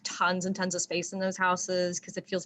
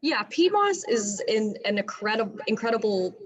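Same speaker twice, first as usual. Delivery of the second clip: speaking with room echo; echoey room; 2 semitones higher than usual. Real, not acted. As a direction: voice echoing in a small room. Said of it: "sorry, there's echo in here".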